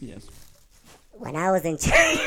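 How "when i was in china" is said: helium voice. Acted. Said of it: "awful impressions of awesome movies".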